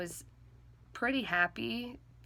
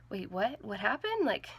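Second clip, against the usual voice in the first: imitating a panicked mom, rising higher and louder; freaking out; 7 semitones higher, 8 dB louder than usual. Mom waking to tragic news, panicked louder cries. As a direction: go from groggy to alarmed. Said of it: "she was freaking out".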